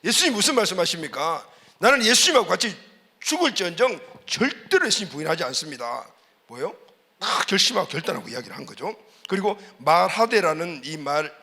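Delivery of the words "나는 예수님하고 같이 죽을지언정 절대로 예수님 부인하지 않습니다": mock loud vow. Preacher voicing Peter's bold vow to Jesus, a touch loud. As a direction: boom out Peter's vow, half-acted. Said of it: "힘 있게 큰 소리로 이야기했다".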